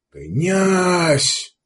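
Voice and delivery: high barked salute; barked shout. A narrator's reading. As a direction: bark it out like soldiers. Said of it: "рявкнули гарки".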